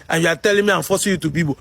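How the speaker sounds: rattled off fast, low and laughing; mock the critics' claim through a laugh. To the critics who say he forces them, fast mocking laugh.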